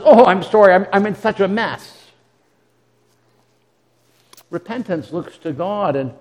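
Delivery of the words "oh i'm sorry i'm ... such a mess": self-pitying remorse. Retold or imitated. Remorse speaking to itself, mock self-pitying whine. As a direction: ham up a sorry-for-myself moan. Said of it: "Remorse looks at oneself and says".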